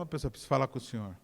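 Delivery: low, soft, hurried imitation; acted hesitant bearer of problems; subdued troubled request. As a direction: drop the voice and murmur it quickly to the pastor. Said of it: "Mas quando é problema".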